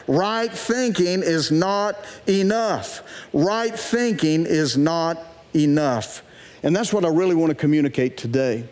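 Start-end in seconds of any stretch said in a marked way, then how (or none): 0.1-6.2 slow, muffled behind a hand; hand over mouth. Shown as a demonstration. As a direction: say it slowly through your fingers. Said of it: "put your hand over your mouth like this and say that".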